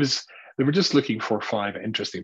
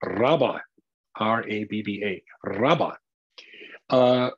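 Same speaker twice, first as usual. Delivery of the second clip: put-on South African accent; slower than usual. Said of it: "said in a South African accent".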